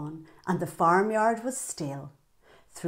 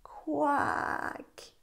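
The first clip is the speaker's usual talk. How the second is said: duck's quack; 7 semitones higher, 5 dB quieter than usual. Acted. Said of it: "answered the duck".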